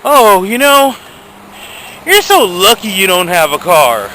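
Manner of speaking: high, sing-song fake pity; mocking sympathy. Ranting vlogger mocks car owners who call him lucky, in a high sing-song. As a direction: mimic a smug car owner's false sympathy. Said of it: "And they're like".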